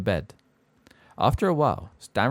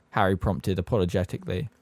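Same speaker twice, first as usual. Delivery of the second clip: plain reading voice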